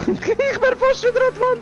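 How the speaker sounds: laughing excitedly. Real, not acted. Near crash, laughing.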